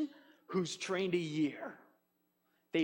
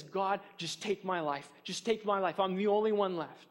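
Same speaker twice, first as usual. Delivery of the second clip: discouraged Elijah. Retold or imitated. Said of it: "he gets so discouraged that he says".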